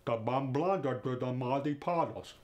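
Russian accent. Shown as a demonstration. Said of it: "He just rattles them off like it's nothing".

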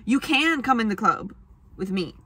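ordinary talk

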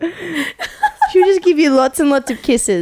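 slow, drawn-out teasing with laughter; laughing teasing. Real, not acted. Friend promising the drinker dog kisses, laughing. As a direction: stretch it out playfully, laughing.

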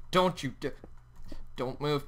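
hushed, careful command; wary warning. Real, not acted. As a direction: warn it quietly, carefully. Warns tiger while building cage.

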